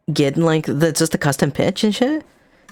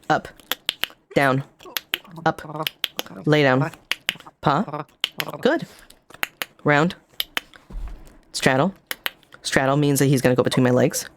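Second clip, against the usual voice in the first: dog commands. Shown as a demonstration. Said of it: "I do it really fast because it's".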